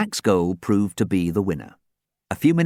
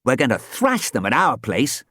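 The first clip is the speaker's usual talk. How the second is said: crowing; 6 semitones higher, 3 dB louder than usual. Acted. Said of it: "Dan crowed".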